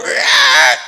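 drawn-out "ah" sound; imitated noise. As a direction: let out a sudden mock cry. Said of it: "a time where we go".

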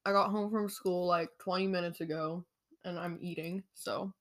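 chewing while talking; mouth full. Real, not acted. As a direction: talk through a mouthful of food. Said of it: "If you hear me chewing".

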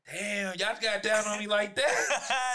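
slow, laughing outcry; half-laughing, half-shocked; laughing disbelief. Retold or imitated. Teacher reacting to students' prank team name, laughing. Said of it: "So I'm like".

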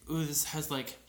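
lightly voiced mom tasting wine. Recalling mom savoring her wine, lightly put-on mom voice. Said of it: "your mom voice".

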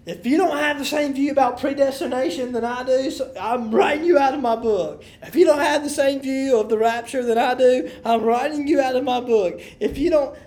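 lightly voiced intolerant believer; imitating dogmatic churchgoers. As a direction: rattle off a rigid believer's repeated threat. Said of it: "who are, who say this".

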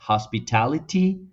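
British Hospitality with crisp t, rising; British hospitality, clear t; British pronunciation. Shown as a demonstration. Teacher repeating the British hospitality with sharp t. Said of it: "tienen una T más explosiva".

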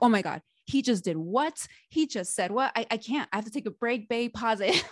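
dramatic overreaction. Retold or imitated. Telling her husband she can't take the show, mildly dramatic. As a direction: ham up the shock at the twist, lightly. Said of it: "you're being so dramatic right now".

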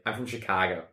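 Chicago accent with wide vowels; wide Midwest accent. Shown as a demonstration. Showing how a Midwest accent sounds, Chicago. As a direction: widen the vowels, Chicago style. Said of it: "it's, like, very wide".

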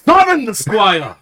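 high, slow kingly order; slow royal command. Acted. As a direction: command it like a king. King commands.

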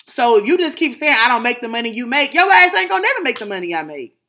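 retold firm scolding.

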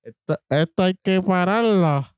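slow, mock speech of a politician; hint of a campaign speech, drawn out; Rubén Berrío impression. Friend mocks a politician's rally slogan, slowly. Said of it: "Te tiraste un Rubén Berrío".

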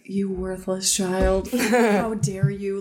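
stern dad. Retold or imitated. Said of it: "He was like".

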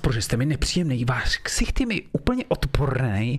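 mock indignant reply; annoyed employee. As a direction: snap back at the boss, half-playing. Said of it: "proč na mě zvyšujete hlas?".

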